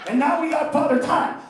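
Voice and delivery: ordinary talk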